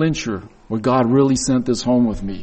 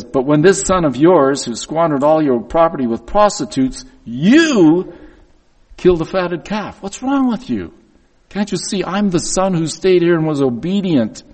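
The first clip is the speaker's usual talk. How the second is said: critical. Retold or imitated. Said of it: "Then he gets critical".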